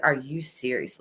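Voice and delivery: low falling "Are you serious?", mildly annoyed; a mock-weary "Are you serious?" that sinks at the end; flat double take. Imitating her sleepy husband, low and falling, unimpressed. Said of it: "the double".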